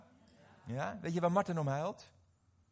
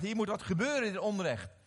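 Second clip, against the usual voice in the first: raised, indignant outburst as Moses; 5 semitones higher, 6 dB louder than usual. Acted. Preacher voices Moses angered by injustice, indignant. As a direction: voice Moses's anger, higher and louder. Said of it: "Hij werd boos".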